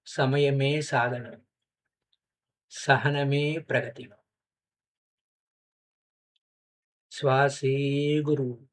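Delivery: slow, measured lines with long pauses; guided meditation. Acted. Teacher leading meditators to the breath, unhurried guided meditation.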